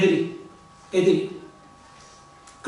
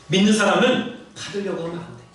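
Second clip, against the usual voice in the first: ordinary talk, nothing marked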